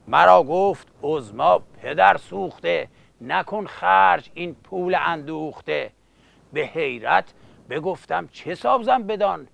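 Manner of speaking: rhythmic epic verse recital; epic teahouse storyteller. Acted. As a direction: chant it like a coffeehouse bard.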